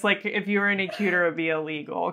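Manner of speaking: usual speaking voice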